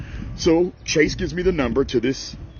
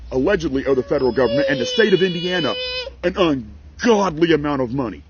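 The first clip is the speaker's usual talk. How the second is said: crying; 3 semitones lower than usual. Real, not acted. Crying over seized bank money.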